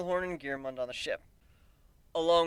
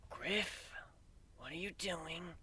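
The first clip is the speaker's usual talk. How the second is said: soft, slow, urgent whisper; 3 semitones higher, 14 dB quieter, much slower than usual. A narrator's reading. Gilda whispering to Griff on stage, soft and worried. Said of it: "Gilda whispers in my ear".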